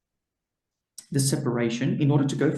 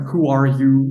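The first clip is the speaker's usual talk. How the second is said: American accent; 6 dB louder than usual. Shown as a demonstration. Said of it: "with a, an American accent just doesn't come out right".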